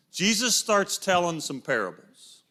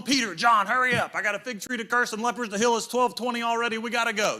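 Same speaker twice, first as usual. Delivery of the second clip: higher-pitched, rushed nagging; mock hurried; 3 semitones higher, faster than usual. Hurried Jesus chivvying Peter and John along, mock impatient. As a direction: rattle it off as if running late.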